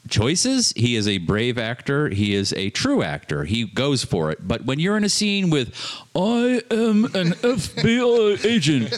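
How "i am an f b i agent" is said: flat Keanu voice. Retold or imitated. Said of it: "mocking Keanu line".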